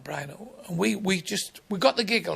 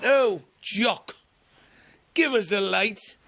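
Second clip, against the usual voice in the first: heckler call; 4 semitones higher, 5 dB louder, slower than usual. Retold or imitated. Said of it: "He went".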